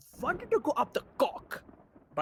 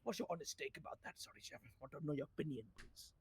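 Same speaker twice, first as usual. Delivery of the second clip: much softer and lower, meek; subdued request; 7 semitones lower, 15 dB quieter, much faster than usual. Acted. Officer asking the sheriff's opinion after outburst, subdued. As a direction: drop to a small, polite voice after the rant.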